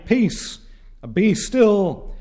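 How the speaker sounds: high, ringing cry of command; commanding voice of God. Acted. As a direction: proclaim it over the raging nations. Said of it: "is heard to cry".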